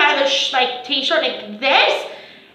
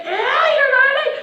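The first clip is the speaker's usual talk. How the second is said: laughing tease; 11 semitones higher than usual. Retold or imitated.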